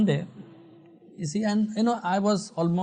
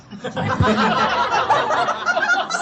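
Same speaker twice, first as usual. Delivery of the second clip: high laugh; 4 dB louder than usual. Real, not acted. Laughing at the blunt diagnosis.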